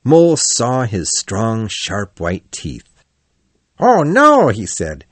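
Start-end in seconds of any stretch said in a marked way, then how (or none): 3.8-4.5 lively, boastful otter; a bold otter bragging to friends; hearty Otter voice. A narrator's reading. Otter speaks.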